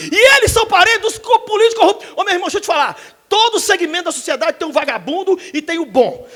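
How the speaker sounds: retold tirade at full force; heated preaching rant. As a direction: scold him like a street preacher. Preacher scolding taxi driver.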